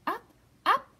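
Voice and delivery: shouting bears. Acted. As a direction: launch it with a big shout. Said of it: "they shouted".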